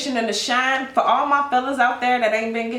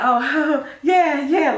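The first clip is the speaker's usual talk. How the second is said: high, louder nervous laugh through yeah, yeah; awkward laughing reply; 6 semitones higher, 4 dB louder, much slower than usual. Retold or imitated. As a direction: dodge a close talker with an uneasy chuckle. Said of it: "you was like".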